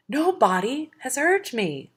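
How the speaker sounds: high, slow giant's bellow. Acted. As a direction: drag it out in a pained roar. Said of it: "Polyphemus bellowed".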